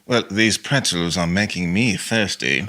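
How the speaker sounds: slow, in an odd put-on voice; put-on reading. Shown as a demonstration. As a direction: play the line as a character. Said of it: "it could be anything".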